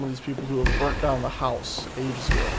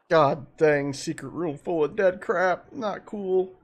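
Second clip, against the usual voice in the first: startled disgust; 4 semitones higher, 4 dB louder, slower than usual. Real, not acted. Finds room of dead bodies.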